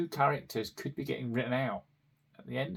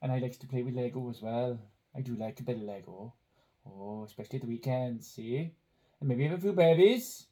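put-on Welsh Valleys accent. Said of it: "in the style of someone from the Welsh Valleys".

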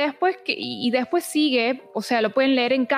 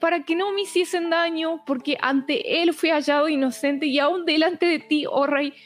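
reading scripture, moved and higher-pitched; moved, near breaking; 3 semitones higher than usual. Real, not acted. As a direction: let the verse move you, pitch lifting. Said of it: "me quebranto porque es hermoso". (conmovida, a punto de quebrarse)

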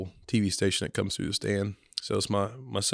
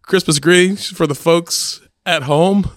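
gently steer him like the news lady; coaxing reporter voice; 10 semitones higher, 9 dB louder than usual. Retold or imitated. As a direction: reporter asking for a warmer greeting. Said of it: "she's like".

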